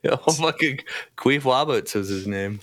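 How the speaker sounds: Queef Wabbits with the R said as a W; mocking the name Queef Wabbits, R turned to W; imitating a speech impediment. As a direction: say Wabbits with a W instead of R, mocking the lisp. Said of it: "why are you saying like that".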